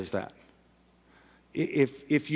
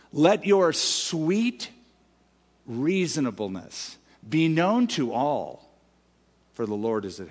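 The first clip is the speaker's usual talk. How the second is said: very slow, savoured verse; slow reading. Shown as a demonstration. Preacher reading his literal translation very slowly. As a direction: linger on each word. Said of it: "Literally, it's this".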